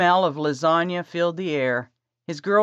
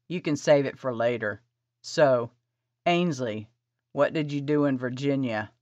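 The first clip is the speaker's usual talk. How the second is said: low male voice; 3 semitones lower than usual. Acted. Kevin voiced by narrator.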